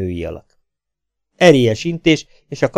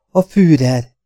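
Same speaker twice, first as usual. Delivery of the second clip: reverent stammer; 5 semitones higher, 5 dB louder, slower than usual. Acted. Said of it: "rebegte tiszteletteljesen".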